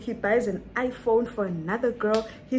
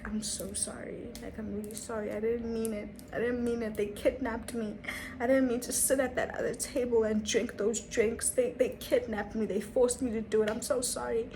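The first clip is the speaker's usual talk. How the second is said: a hint of meek, pleading voice, softer; submissive apology; 4 dB quieter than usual. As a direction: play small and plead softly. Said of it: "I played the submissive role".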